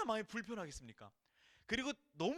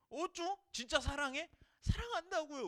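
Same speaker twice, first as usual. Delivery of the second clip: mock needling; 8 semitones higher than usual. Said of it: "그런 갈구는 그런 느낌".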